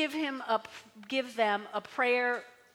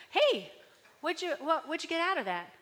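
curious questioner; 5 semitones higher than usual. Retold or imitated. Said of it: "someone comes up to you".

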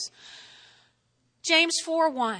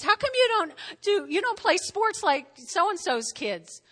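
higher-pitched parental complaint; mock nagging; 5 semitones higher than usual. Parent comparing own kids to others', mock nagging. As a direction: needle them with the comparison.

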